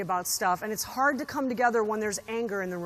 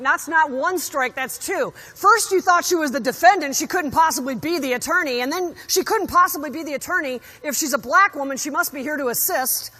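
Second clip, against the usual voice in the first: retold outrage; 3 semitones higher, 6 dB louder than usual. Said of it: "I was, like, flabbergasted".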